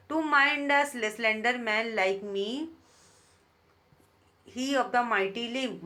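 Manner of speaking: very slow, deliberate reading of verse; teacher reading poetry aloud; poem recitation. Shown as a demonstration. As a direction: savour each word of the poem line.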